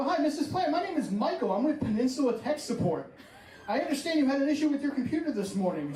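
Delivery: prank-call customer service voice; disguised voice. Retold or imitated. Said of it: "I disguise my voice".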